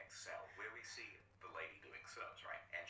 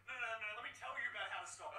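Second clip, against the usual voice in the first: high, pleading captive scientist voice; 11 semitones higher, 5 dB louder, faster than usual. Acted. Captive scientist to Snake, high and pleading. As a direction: beg the rescuer to get you out. Donald voice.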